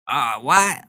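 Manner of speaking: hammed-up indignant cry; mock outrage at the senator; mock angry outburst. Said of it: "He banged his hand on the table like".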